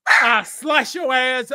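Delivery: slow, loud threat; shouting a threat at a rival; threatening shout. Real, not acted. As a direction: yell it slowly to scare him. Threatening rant at Crowder.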